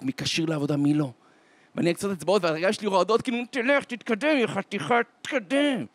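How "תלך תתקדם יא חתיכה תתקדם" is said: high, pressed acted plea; will him to move along; tense urging. Trembling boy urges the soldier onward, tense urging.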